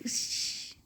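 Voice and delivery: sharp unvoiced hiss through the teeth; hiss of pain. Imitating someone's hiss after a hard pinch. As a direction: suck air in like a pinch stung. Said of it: "आप क्या करें".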